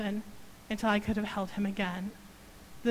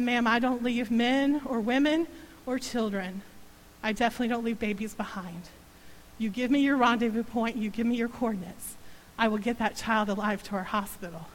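steady pilot. Retold or imitated. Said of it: "strong voice came across the phone".

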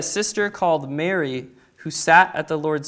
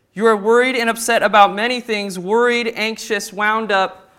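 earnest rebuke; 4 semitones higher, 4 dB louder than usual. Acted. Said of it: "So it would have been really like".

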